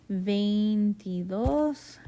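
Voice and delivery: veintidós drawn out slowly, syllable by syllable; slow demo. Shown as a demonstration. Teacher slowly models veintidós for the class, drawn out. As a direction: stretch out veintidós so students hear the stressed final dós. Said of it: "Notice that veintidós and veintitrés".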